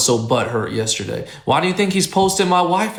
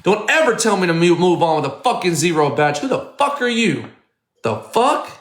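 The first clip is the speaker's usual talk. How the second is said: real anger, raised voice at a troll; angry rant at chatter; 2 semitones higher than usual. Real, not acted. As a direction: tell off the zero-badge viewer hard. Yelling at a chat user.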